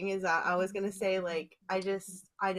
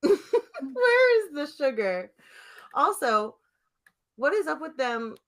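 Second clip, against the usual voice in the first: loud, slow, high laughing wail; laughing cry; 6 semitones higher, 7 dB louder than usual. Real, not acted. Laughing exaggerated question.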